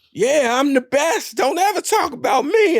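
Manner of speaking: high, amped-up athlete boast; mock a hyped player's post-game rant; Richard Sherman. Host imitates athlete on the mic after the game, high mock bragging. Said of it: "you remember Richard Sherman?".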